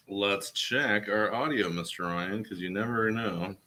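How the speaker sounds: slow, drawn-out test line; mock-solemn sound check. Co-host testing audio for Mister Ryan, slow mock-solemn. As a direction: draw the words out slowly for the mic.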